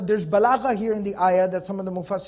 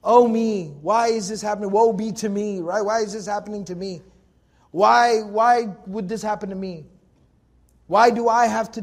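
mock self-pity. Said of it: "kind of the self-pity".

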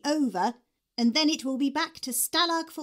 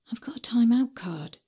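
voiceless whisper, barely audible; under her breath. Acted. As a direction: hush it so only Miss hears. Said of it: "I say this almost under my breath".

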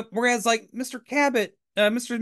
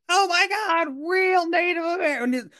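put-on much higher, awestruck kid voice; gushing Jody impression; 12 semitones higher than usual. Jody meeting the actors, squealing in awe. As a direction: gush like a starstruck little boy. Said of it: "like, Jody".

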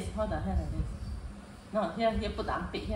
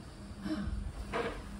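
gasp; 2 semitones higher, 10 dB quieter than usual. Real, not acted. Reacting to something seen.

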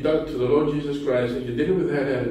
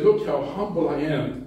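mock boastful. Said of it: "I'm the humblest person in this church".

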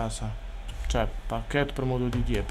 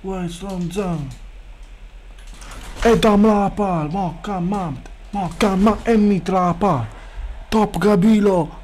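crowd yelling; 4 semitones higher, slower than usual. Pretend. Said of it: "Il pubblico urla".

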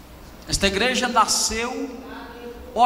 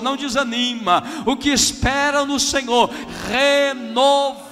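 fervent preaching; 2 semitones higher than usual. Real, not acted. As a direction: preach it with rising fervour to the congregation. Preaching at full force.

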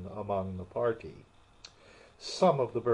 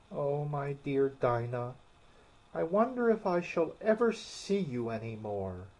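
melancholy; 3 semitones higher than usual. Acted. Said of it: "poor Alice began to cry".

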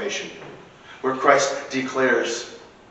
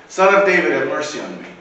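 louder pleading shout; yelling louder; 3 semitones higher, 5 dB louder than usual. Acted. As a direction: beggar yelling louder over the crowd that tried to hush him, shouting. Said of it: "he yelled all the more loudly".

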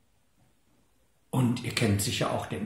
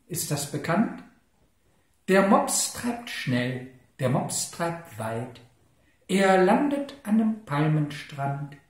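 poem recital; 4 dB louder than usual. Acted. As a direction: recite it line by line, lingering on the rhythm. Recites pug poem from the book. (langsam vorgetragenes Kindergedicht)

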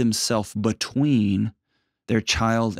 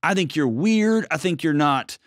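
a higher, gently accepting mother-in-law voice; lightly voiced, pitched-up in-law giving a warm welcome; welcoming mother-in-law; 4 semitones higher than usual. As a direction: speak as a mother-in-law who chooses to embrace her son's wife. Voicing ideal mother-in-law's welcome.

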